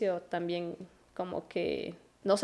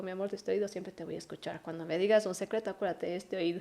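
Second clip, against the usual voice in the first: softer and a little quick, motherly; tender reassurance; 3 dB quieter, faster than usual. Retold or imitated. Mother reassuring her son she'll always hear him, softer tender voice. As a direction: reassure the child gently.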